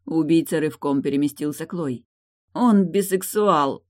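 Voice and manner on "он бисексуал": slow, drawn-out moan. Acted. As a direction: groan the words out slowly. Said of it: "простонала Тильда". (медленно, со стоном)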